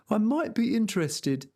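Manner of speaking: peasant voice. Acted. Sancho replies.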